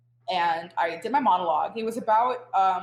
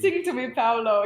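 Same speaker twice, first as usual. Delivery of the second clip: mock Italian accent, a bit louder; Hilary Duff's Italian accent; 2 semitones higher, 5 dB louder than usual. Actor recalls her only Italian accent from childhood movies, mock Italian accent. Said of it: "The only Italian accent I know is from Hilary Duff".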